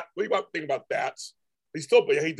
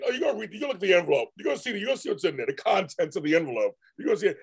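quick, raised-pitch inner monologue; mock anticipation; 3 semitones higher, faster than usual. Voicing dad's thoughts about the envelope, rapid mock anticipation. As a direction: rush through his thoughts with growing relish.

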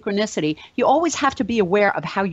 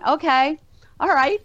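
hoarse relief; 6 semitones higher than usual. Retold or imitated. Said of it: "I had no voice left".

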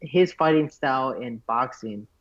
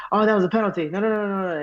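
put-on Russian-accented protest; 7 semitones higher, faster than usual. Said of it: "He's like".

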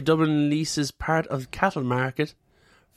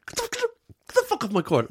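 mock screamed order; 11 semitones higher, much faster than usual. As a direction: scream him off your court. Mock referee shouting.

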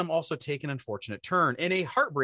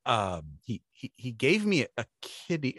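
mother's voice; 6 semitones lower than usual. Retold or imitated. Mother answers again.

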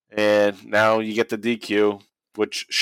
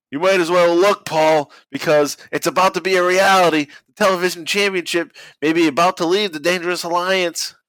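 a hint of announcer J R, higher; reading J R; 7 semitones higher than usual. Quoting the commentator to his cohost, higher announcer read. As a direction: read the call like the old announcer. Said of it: "J R says".

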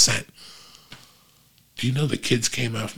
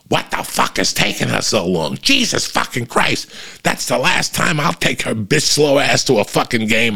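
mock exasperated mom ranting, pitch jumping higher; annoyed mom; 5 semitones higher than usual. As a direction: imitate a fed-up mother swearing. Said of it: "the mom go".

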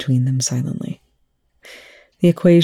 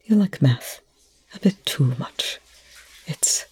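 holding back tears; 3 dB quieter than usual. A narrator's reading. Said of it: "sounding like trying not to weep".

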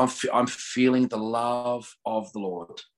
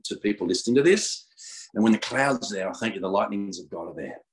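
steady earnest prayer voice; 3 semitones lower than usual. Acted. Praying over podcast listeners, earnest prayer voice. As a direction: pray it over the listeners, unhurried.

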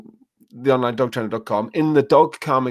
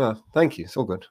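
easy, softer reassurance to the dog; relaxed all-clear, trailing softer; calm and casual; 3 semitones lower, 5 dB quieter than usual. Shown as a demonstration. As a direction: say it lightly and walk off unbothered. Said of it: "Do not look at the dog".

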